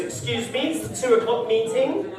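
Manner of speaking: a hint of posh office type; mock posh colleague. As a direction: lightly mimic a snooty businessman interrupting. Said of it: "one of them little posh wankers".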